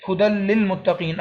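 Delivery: slow ہدل للمتقین with a doubled l, no n; idgham without ghunnah. Shown as a demonstration. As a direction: join ہدل للمتقین on a firm l without nasal hum. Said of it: "غنہ کیے بغیر پڑھنا ہے". (ہدل للمتقین میں غنہ کے بغیر لام ملا کر پڑھیں)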